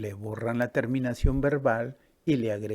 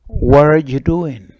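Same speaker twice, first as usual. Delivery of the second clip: put-on a girl calling across to ask what he's doing; loud slow question; 4 semitones higher, 19 dB louder than usual. Girl asks the boy what he is doing, loud and slow.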